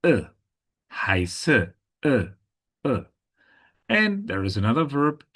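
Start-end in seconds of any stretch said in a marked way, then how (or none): 0.0-3.0 short E isolated, then heard ending HEISSE; short, separate E as in the end of HEISSE; ending E demonstrated. Shown as a demonstration. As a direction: show the final E of HEISSE by itself. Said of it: "you can see it ends on".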